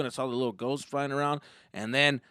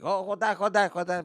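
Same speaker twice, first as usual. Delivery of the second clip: higher, hurried stalling; mildly flustered, hold the worker off; flustered dad; 5 semitones higher than usual. Acted. Dad to ride worker, lightly flustered stalling.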